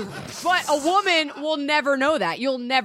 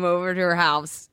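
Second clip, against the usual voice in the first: hoarse, low sore throat voice; 5 semitones lower than usual. Real, not acted. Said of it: "in my sore throat voice".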